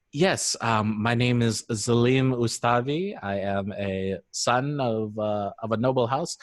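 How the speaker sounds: lightly voiced son of a noble house; NPC noble. Shown as a demonstration. Game master demonstrating an NPC's introduction, noble voice. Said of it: "has to voice all the N P Cs".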